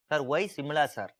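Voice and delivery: student's question. Retold or imitated. Teacher voicing a student asking why Simla. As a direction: pipe up like a curious pupil. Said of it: "You may ask question".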